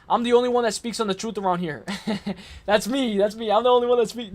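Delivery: laughing brag. Real, not acted. Joking brag while laughing.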